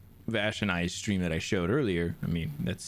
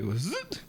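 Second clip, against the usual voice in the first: buzzing cutout noise; 12 semitones higher than usual. Retold or imitated. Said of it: "It was like".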